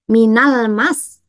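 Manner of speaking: slow recitation, "mas" pressed firmly; stressed final syllable. Shown as a demonstration. Teacher demonstrating naber, slow chant with stressed "mas". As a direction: draw out "Minal", then punch "mas". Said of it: "berarti kita naberkan".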